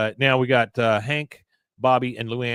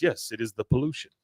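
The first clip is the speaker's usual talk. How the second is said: mild suave host voice; lightly voiced Latin host. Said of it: "He says".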